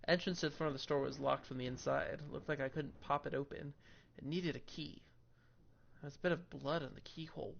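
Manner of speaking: steady narrating read of game text; story narration. Acted. Reads game text aloud.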